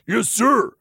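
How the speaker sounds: obey on a breath. A narrator's reading. Lucian submits to the lover's order, breathed. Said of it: "Lucian breathed".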